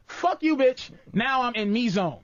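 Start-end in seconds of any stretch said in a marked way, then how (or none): 0.1-0.9 inner thought. Retold or imitated. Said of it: "in my head".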